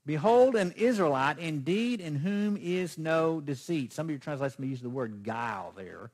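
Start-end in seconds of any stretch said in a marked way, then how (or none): 0.0-3.9 preached voice of Jesus. Acted. Preacher voicing Jesus' words.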